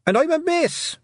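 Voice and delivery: high, loud protest; indignant shout. A narrator's reading. Tiffany shouts back from the hen house, indignant shout. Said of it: "shouted Tiffany".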